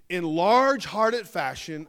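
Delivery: slow, drawn-out mock praise; sarcastic. Real, not acted. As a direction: stretch the compliment out with sarcasm. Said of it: "I'm being sarcastic".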